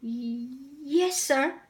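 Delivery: stammering, a touch scared; nervous stammer. Acted. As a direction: stutter it out timidly. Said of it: "he said nervously".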